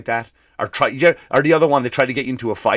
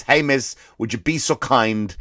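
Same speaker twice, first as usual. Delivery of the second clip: polite request. Retold or imitated. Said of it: "All I said was".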